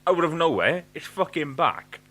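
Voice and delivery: high, loud burst of disbelief; exasperated outburst. Retold or imitated. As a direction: blurt it out, fed up and amazed. Retelling phone glitch, exasperated.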